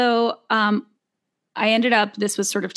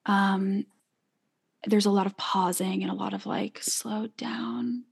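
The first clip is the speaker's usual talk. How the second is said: white lady healer voice. Pretend. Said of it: "your white healer lady voice".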